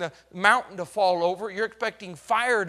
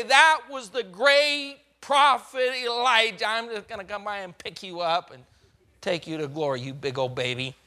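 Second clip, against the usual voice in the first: higher, mock-grand God voice fading into a fond tease; God's teasing verdict; 4 semitones higher, 3 dB louder than usual. God tells Elijah what he will do, mock-grand then teasing. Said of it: "God said".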